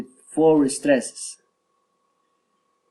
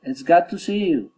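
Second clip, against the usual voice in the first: exclamation dropping on "you"; lift, then let "you" fall; exclaimed with a falling "you"; 3 semitones higher than usual. Shown as a demonstration. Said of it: "falling intonation".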